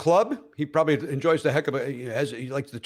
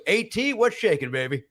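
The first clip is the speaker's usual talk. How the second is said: cheesy greeting; 5 semitones higher than usual. Retold or imitated. Buddy greets celebrity cheesily.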